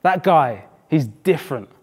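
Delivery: imitating an impressed lad, laid-back; cool street slang. Footballer praising a standout player, cool and impressed. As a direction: drop into cool South East London slang, each phrase falling away. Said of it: "it sounds so cool".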